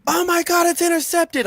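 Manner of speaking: shocked. Retold or imitated. Retold reaction to interception.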